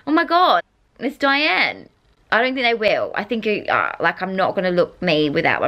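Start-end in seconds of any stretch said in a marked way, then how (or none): 0.1-1.9 high-pitched excited recognition; mock fangirl exclamation; excited fan. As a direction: imitate a fan spotting someone, voice jumping up. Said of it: "and be like".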